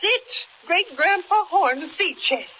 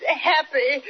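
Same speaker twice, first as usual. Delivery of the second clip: speaking through joyful crying; happy tears. Acted. Aunt finds the jade and cries with joy, teary. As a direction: insist you're not crying while the tears come. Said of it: "Don't cry".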